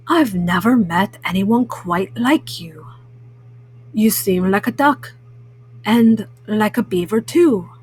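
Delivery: lightly voiced friendly cat; Pete the Cat. Cat greeting the new guy, lightly voiced and friendly.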